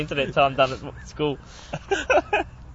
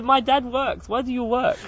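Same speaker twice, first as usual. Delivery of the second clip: higher child's voice with a hint of accent; kid's accent; 8 semitones higher, slower than usual. Pupil questioning his teacher, a hint of child accent. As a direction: lightly imitate the pupil's question. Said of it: "And he said".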